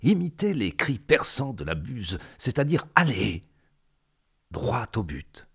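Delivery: high, rising energy in the voice; piercing, high. Acted. Poet evoking a buzzard's piercing cries, high and keen. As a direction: lift it well above your reading voice.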